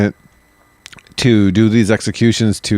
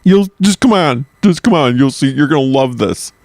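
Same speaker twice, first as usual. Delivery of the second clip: high, urging mock Indian accent; 5 semitones higher than usual. Traveler coaxing a friend to an execution, mock Indian accent. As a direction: coax them along in a put-on Indian accent. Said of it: "That's my Indian accent".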